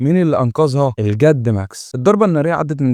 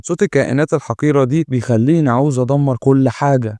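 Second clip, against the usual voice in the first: ordinary delivery, nothing marked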